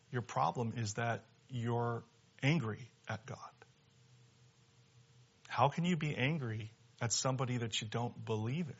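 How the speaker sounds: quiet, measured reasoning; gently reasoning with someone, voice kept down; calm pastor. Retold or imitated. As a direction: say it softly and evenly, leaving pauses between thoughts. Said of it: "the pastor very calmly said".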